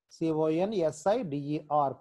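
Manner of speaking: slow, letter by letter; spelling out slowly. Shown as a demonstration. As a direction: spell it out slowly for the class to copy. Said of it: "మీరు spelling చూస్తూ".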